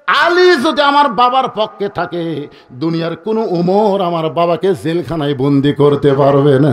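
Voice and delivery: chanted mock shout of a child; child's mock cry. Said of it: "ছোট্ট বাচ্চা চিৎকার করে বলতেছে".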